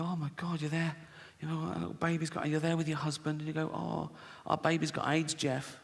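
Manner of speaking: quiet, hushed, mock-tragic wife's voice; soft mock-sad wife. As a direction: murmur it like a grieving mother, half-joking.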